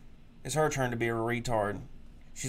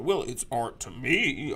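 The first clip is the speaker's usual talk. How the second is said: mock excuse; 3 dB louder, much slower than usual. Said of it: "you go in there".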